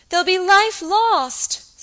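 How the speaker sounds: slow, high, loud sobbing wail; sobbing distractedly. Frightened girl fearing deaths, sobbing wail. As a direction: break down on the repeat. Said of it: "sobbed the girl distractedly".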